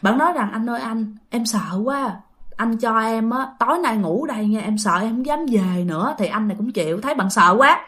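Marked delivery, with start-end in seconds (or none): 0.5-6.1 soft, frightened plea to stay the night; a hint of fear, asking quietly; scared pleading. Frightened man quietly asking the shopkeeper to let him stay the night. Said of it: "Thì bạn rất là sợ".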